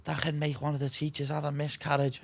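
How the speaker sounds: high-pitched imitation of a panicking head teacher; mock outraged teacher. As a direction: ham up the teacher going bananas. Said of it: "went bananas".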